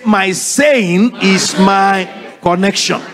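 slow, drawn-out repeat; slow congregational echo. Shown as a demonstration. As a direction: say it slowly after the preacher.

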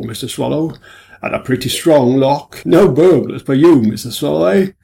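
breezy, teasing officer; a hint of a jolly superintendent; genial superintendent.

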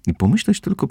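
high, lilting daydream; lost in wonder; dreamy voice. A narrator's reading. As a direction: marvel dreamily, pitched high. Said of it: "rozmarzonym głosem".

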